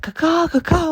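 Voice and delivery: very high, loud squawk; hawk cry. Retold or imitated. The attacking hawk, a very high, loud squawk. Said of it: "it's like".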